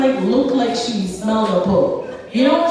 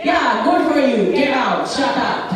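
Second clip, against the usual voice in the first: lightly voiced dismissive Indian mom; brusque mom impression; 5 semitones higher than usual. Mom answers her child's goodbye, mock brusque dismissal. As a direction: brush the child off, imitating mom. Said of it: "And she said".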